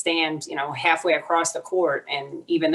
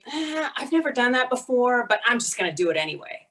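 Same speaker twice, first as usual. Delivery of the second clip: confident guy; 6 semitones higher, faster than usual. Retold or imitated. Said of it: "Male colleagues would go to the job and say".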